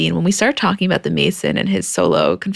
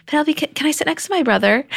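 put-on kind calm boy; 8 semitones higher than usual. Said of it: "Mason very kindly and calmly just says".

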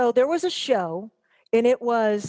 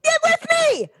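loud demand; 4 dB louder than usual. Real, not acted. Demanding attention.

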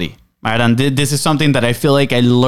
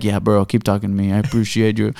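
lower, softer bro voice; soft, lower bro answering deep voice; mock charmed listener; 4 semitones lower, 4 dB quieter than usual. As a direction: hum along, won over. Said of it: "and you're like".

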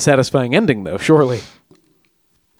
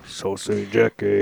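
bad Cockney accent; 4 semitones lower, 6 dB quieter, slower than usual. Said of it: "example number one".

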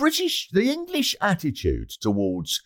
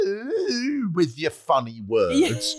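mocking sneer; 2 semitones higher, much slower than usual. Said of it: "people go".

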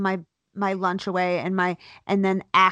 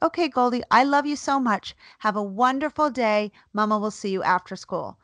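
sweet bluff goodbye; 3 semitones higher than usual. Retold or imitated. Fake-sweet goodbye to daughter.

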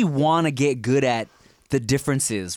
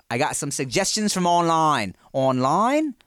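trying out Aussie vowels, questioning; Australian accent; slower than usual. Shown as a demonstration. Host retrying a line to check his accent, Australian accent. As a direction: test your Australian accent on "online". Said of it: "not that bad at that accent".

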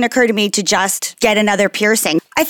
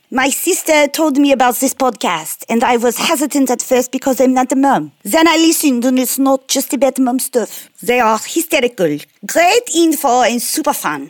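fake French accent. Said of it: "couldn't tell if we were going Freud or, like, ooh la la".

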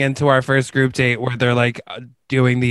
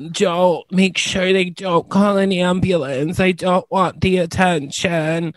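high, mock dramatic plea; lightly voiced friend begging to avoid fuss; mock fainting friend; 5 semitones higher than usual. Friend mimicked pleading to skip the ambulance, mock voice. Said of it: "she would always be like".

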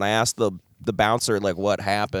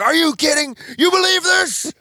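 high, incredulous mock dad voice; imitating dad; 3 dB louder than usual. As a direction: squeak it out like an outraged old man. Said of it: "he's just like".

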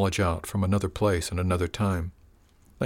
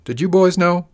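mock innocent question; 10 semitones higher, 9 dB louder than usual. Leader mockingly asks his men.

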